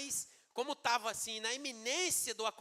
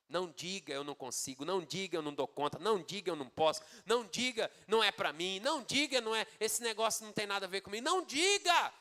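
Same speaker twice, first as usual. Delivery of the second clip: insistent building exhortation; 4 dB louder than usual. Acted. Preacher warns the church against negative words, building insistently. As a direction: hammer each prohibition harder, ending in a shout.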